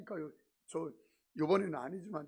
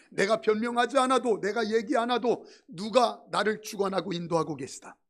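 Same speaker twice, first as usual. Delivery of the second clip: louder, insistent pulpit delivery; preaching; 3 dB louder than usual. Acted. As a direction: drive each line home to the congregation. Preaching at full force.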